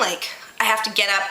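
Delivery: plain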